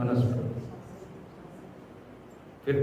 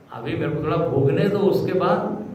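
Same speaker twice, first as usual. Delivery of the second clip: acted pleading; 3 semitones higher than usual. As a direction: voice climbs in a mild plea. Rich man begs Yamraj for time.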